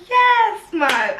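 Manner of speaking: gleeful, like finally getting good news; happy. Retold or imitated. Told the hotel is sorted, shouts a high happy yes. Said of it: "I start getting happy".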